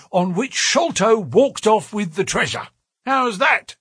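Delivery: high-pitched, patronizing official voice; pompous and hearty, high voice; blustering police detective. A narrator's reading. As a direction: bluster along, pitched well above your own.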